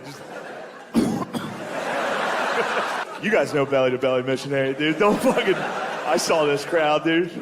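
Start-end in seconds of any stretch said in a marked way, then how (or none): 0.9-3.2 mock wheezing huffs, no voice; imitated winded coughing. Tired lover during sex, mock coughing and huffing. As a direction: act out breathless coughs. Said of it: "Coughing during sex is funny".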